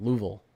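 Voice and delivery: Louisville as a two-syllable LOO-vul; Kentucky pronunciation. Shown as a demonstration. Streamer repeating the local name, Kentucky pronunciation. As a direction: squash Louisville down to "Loovul". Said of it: "I think that's what Kentucky".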